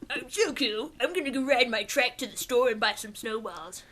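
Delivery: lightly put-on cool-guy voice; mocking imitation. Friend teasing co-host's cool act, mocking imitation. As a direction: parody a self-styled cool guy.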